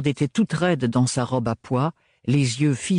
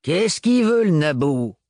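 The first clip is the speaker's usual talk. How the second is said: higher, louder scornful crone; gruff old woman; 5 semitones higher, 4 dB louder than usual. Acted. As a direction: toss it out with scorn. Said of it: "lui demanda Hildegarde".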